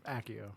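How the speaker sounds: Accio said with a K sound, AK-ee-oh; hard C. Shown as a demonstration. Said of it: "how do you pronounce".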